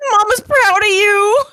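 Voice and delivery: high, loud teary doting; baby talk. Acted. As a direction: gush over the pet, near tears. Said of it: "And Vivian's like".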